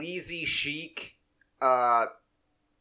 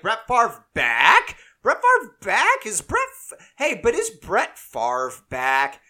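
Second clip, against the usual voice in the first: mock excited; 7 semitones higher, 7 dB louder than usual. Everyone online reacts to the news.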